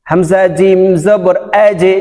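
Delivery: slow spelling, bouncing "আজে" down to an e; downward qalqala. Shown as a demonstration. Teacher showing learners "আজে", downward qalqala. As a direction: push the জ of "আজে" into a downward echo. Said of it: "নিচের দিকে ধাবিত হবে".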